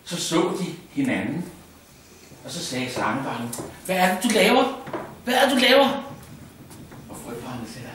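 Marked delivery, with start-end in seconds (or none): 3.8-6.0 put-on high squeaky child asking; a curious little snake child, voice up high. Snake child asks frog child. (høj, pibende barnestemme)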